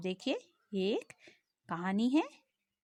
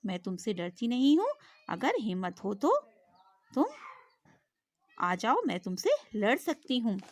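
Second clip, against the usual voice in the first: defiant fly. Acted. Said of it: "मक्खी ने शेर से कहा".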